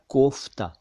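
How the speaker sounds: कोफ्ता with plain k and an f sound; f in kofta. Shown as a demonstration. Teacher showing the word it makes, कोफ्ता with clear f. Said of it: "वो फ पढ़ा जाएगा".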